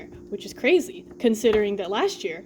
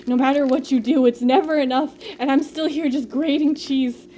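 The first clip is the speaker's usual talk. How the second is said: louder, overwrought mock despair; dramatic; 3 semitones higher, 4 dB louder than usual. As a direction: play it up like a tragedy. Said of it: "I'm being so dramatic with it".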